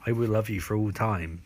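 measured, portentous tale-telling; mock horror storytelling. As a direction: tell it as a deadpan tale of terror.

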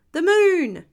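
put-on high, loud children's shout; excited shout. A narrator's reading. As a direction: call out the answer eagerly, stretching it. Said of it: "shouted all the children".

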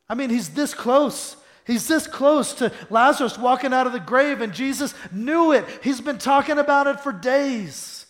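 high, loud, insistent sermon voice; forceful preaching. Real, not acted. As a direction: drive the point home from the pulpit.

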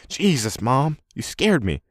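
high-pitched startled reproach; jump, then draw out the complaint. A narrator's reading. Son caught by his mother in the cellar, startled. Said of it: "His head shoots up".

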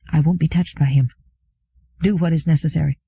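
ordinary delivery

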